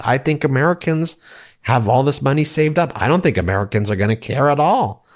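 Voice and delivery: mocking impression of arrogant indifference, lifted in pitch; Scott Bessent, arrogant. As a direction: play a smug official airily brushing people off. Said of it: "he does it with this, like, arrogance".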